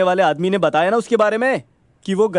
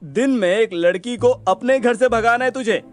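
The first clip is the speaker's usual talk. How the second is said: amused, slightly raised jeering; laughing mockery; 4 semitones higher than usual. Friend ridiculing his two runaway plans, amused and mocking. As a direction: tease him while getting over a laugh. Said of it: "साला जोर जोर से हंसने लगा".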